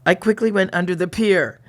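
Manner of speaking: lightly dramatized diary narration; diary reading. A narrator's reading. Reading the diary to a co-host, lightly dramatized storytelling. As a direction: read it out like a steamy romance story.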